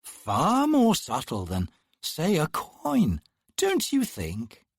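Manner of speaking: sly sister needling the captain slowly; teasing sister. Acted. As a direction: savour the dig, slowly. Twin sister teasing the fallen man.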